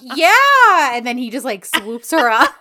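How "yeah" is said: high, louder squeaky yeah; mock flustered yes. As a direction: squeak it out caught off guard. Voicing the heroine's reply.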